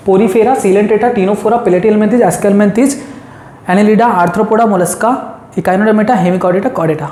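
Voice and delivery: चेंट की तरह नाम गिनाना, लय में; हर नाम पर ज़ोर देकर क्रम से बोलना; rhythmic recital. Shown as a demonstration. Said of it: "कैसे, कैसे?". (याद कराने के लिए लय में रटवाना)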